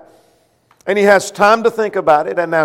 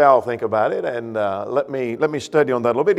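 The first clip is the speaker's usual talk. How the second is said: hesitant son; 6 semitones lower, 4 dB quieter than usual. Acted. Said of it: "He didn't say".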